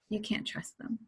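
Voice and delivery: whispering the mind's doubt; the mind whispering distrust; whispered thought. Retold or imitated. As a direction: breathe it like a nagging inner voice. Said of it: "one of the biggest ones".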